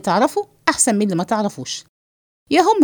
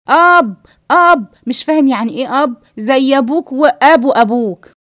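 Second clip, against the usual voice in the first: loud and exasperated; 2 semitones higher, 5 dB louder than usual. Acted. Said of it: "بس وطي صوتك". (زعيق بنفاد صبر)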